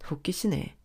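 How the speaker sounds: a breathy whispered sneer; scornful whisper. Real, not acted. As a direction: hiss it under your breath. Narrator's scornful aside. (속삭이듯 비웃는 말)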